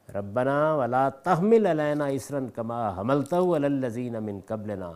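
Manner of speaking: slow, measured Arabic recitation; unhurried scripture reading; Quranic recitation. Real, not acted. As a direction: recite the verse slowly, drawing out vowels.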